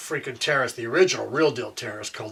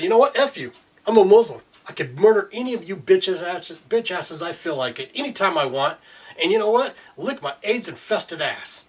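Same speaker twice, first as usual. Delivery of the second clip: mock taunting cop; 4 semitones higher than usual. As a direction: throw it out as a sneering thug would. Ranting voice of the cop.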